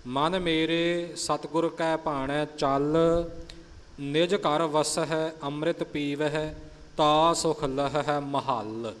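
slow verse ending on ਮਹੱਲ as ma-hall, not mehal; deliberate recital, stretching ਮਹੱਲ as ma-haal; pronunciation demo. Shown as a demonstration. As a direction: model ਮਹੱਲ with the weight on its second syllable. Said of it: "ਪਰ ਇੱਥੇ ਉਚਾਰਨ ਮਹੱਲ ਆਵੇਗਾ".

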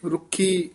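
ਰੁਖੀ with a tight doubled kh; short vowel, firm ਖ in ਰੁਖੀ; tight consonant. Shown as a demonstration. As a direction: press the ਖ in ਰੁਖੀ. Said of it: "ਕਸ ਕੇ ਹੀ ਉਚਾਰਨ".

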